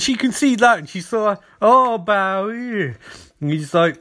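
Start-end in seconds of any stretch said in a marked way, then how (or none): 1.6-3.0 drawn-out, slow teasing coo; hammed-up smitten sigh of a name; mock swooning. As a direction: stretch it out like a lovestruck admirer. Voicing Iris swooning at the Flash.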